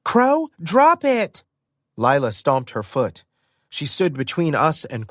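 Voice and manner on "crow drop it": very high, loud, slow command; commanding shout. Acted. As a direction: order the bird to let go. Lila commands her pet.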